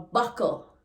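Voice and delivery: buckle, the patois form of turtle; patois word buckle. Shown as a demonstration. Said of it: "Jamaican patois".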